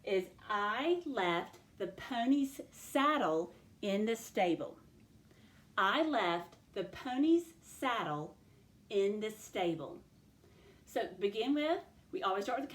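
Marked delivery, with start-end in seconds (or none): 0.5-4.8 slow dictation in separate word groups; sentence dictation. Shown as a demonstration. Teacher dictating a sentence to second graders, slow dictation. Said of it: "The sentence that we are going to do". 5.8-10.0 slow repeat in measured chunks; sentence dictation. Shown as a demonstration. Teacher repeats the sentence for young writers, slow dictation. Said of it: "it is sentence dictation time".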